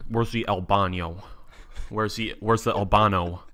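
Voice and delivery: a deliberately bad Spanish accent, stretched out; butchered Spanish. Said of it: "butchering of the".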